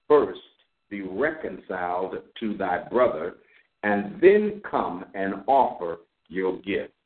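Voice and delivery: slow, measured reading of the verses; scripture reading. Acted. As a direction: read each phrase slowly, as holy text. Reads scripture aloud.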